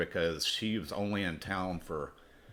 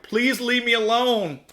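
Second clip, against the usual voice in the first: much higher and louder, a squeaky falsetto woman pleading; mock high woman's voice; 10 dB louder, slower than usual. Singer to the man she thinks is a pimp, high mock falsetto. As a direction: play the frightened singer in a shrill-high mock voice. Singer rebuffs him at bar.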